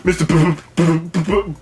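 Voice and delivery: slow, mocking imitation of a stutter. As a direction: tease him by stammering P-P-P. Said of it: "Mister Stutter".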